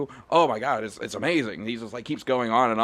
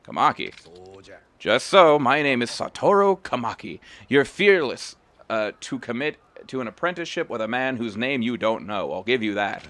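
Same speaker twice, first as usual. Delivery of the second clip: put-on old master Kamaki. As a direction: read the master's judgement with weight. Reads Kamaki's lines.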